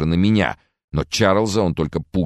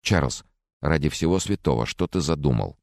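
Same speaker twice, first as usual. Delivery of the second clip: very calm. Acted. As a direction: keep it level and calm despite the fear. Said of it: "спросила очень спокойно". (очень спокойно, ровным голосом)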